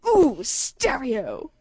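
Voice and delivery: slow drawn-out sing-song "Ooh, stereo"; ooh stereo girl. Retold or imitated. A girl on the bus teasing two people who spoke together, slow and drawn out. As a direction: stretch it out like a girl calling from the back. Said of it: "This girl pops up from the back and goes".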